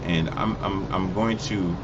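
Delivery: stumbling over the words; stuttering. Real, not acted. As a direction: stammer and restart the phrase. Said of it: "you know why I'm stuttering right now".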